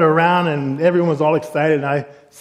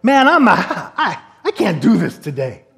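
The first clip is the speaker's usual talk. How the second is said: acted reluctant outburst; blurted confession. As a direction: blurt out a retold admission. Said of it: "I finally blurted it out".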